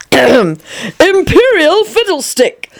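lightly put-on pompous king; Sir Richard as the king. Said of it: "imitate Sir Richard for her".

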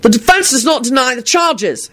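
high-pitched vehement rebuttal, moderate volume; vehement retort. A narrator's reading. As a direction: answer back forcefully over hecklers. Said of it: "Harry shouted back vehemently".

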